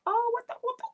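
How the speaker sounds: high-pitched mock indignation; offended. Retelling how the offended wife reacted, offended. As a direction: act out her taken-aback, offended outburst. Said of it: "she was definitely offended".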